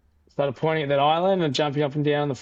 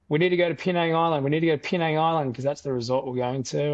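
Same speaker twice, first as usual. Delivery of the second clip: urgent raised voice, fast; calling out to get the boat moving; hurried raised plea to the fishermen; retold yelling at the locals; 3 semitones higher, faster than usual. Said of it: "I started yelling at the Indos".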